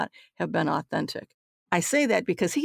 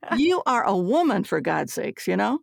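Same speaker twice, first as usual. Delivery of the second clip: higher, half-laughing mock outrage; indignant chief; 5 semitones higher than usual. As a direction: play the offended chief with a laugh. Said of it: "He looked at me like".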